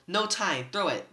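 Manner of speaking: Percy shouting to Tyson to throw the fleece; yell. A narrator's reading. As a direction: call across the beach to hurry. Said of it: "but I yelled".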